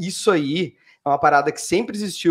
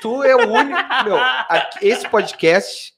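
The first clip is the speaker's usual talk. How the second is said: laughing; 3 semitones higher, slower than usual. Real, not acted. Laughing while teasing co-host.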